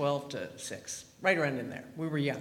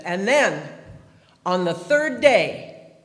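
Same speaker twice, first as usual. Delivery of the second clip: loud, slow priestly proclamation; mock-solemn, loud Easter pronouncement; priest's broken English; 3 semitones higher, 7 dB louder, slower than usual. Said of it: "very broken English".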